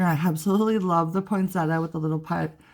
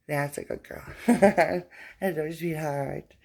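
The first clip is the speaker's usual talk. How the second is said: sweet talk to a pet; 3 semitones lower than usual. Real, not acted. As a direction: soothe the dog tenderly. Soothing a pet after scolding.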